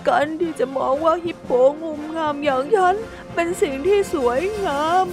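high, sorrowful self-talk with a sigh; high, heartbroken little voice; sad monologue. Acted. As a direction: speak to yourself, heartbroken. Hippo's sad lonely monologue.

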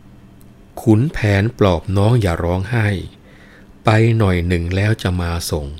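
poem recitation. Acted. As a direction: recite the klon verse like a storyteller.

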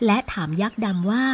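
ordinary delivery, nothing marked

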